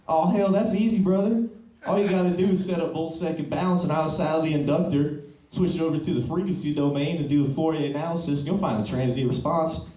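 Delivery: put-on high, broad Southern accent with a good-old-boy swagger. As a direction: play a Southern engineering student in a thick Southern accent. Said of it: "people with Southern accents".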